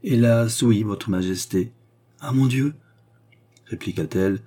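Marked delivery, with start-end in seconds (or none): 2.2-2.7 light mock alarm; gay air. A narrator's reading. Queen mocks Philippe's sigh, lightly gay. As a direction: toss it off with put-on gaiety. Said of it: "en reprenant cet air gai".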